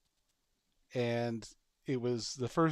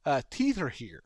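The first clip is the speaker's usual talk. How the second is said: a touch higher, louder dopey voice; voicing the dog, dim realization; mock dopey dog; 4 semitones higher, 6 dB louder than usual. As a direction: play a clueless dog noticing teeth. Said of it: "where I'm like".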